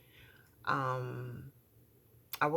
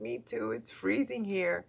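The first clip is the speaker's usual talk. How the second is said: daughter agreeing; 8 semitones higher than usual. Retold or imitated. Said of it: "she was like".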